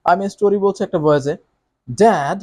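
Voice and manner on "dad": normal voice. Shown as a demonstration. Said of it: "এটা আমার normal voice".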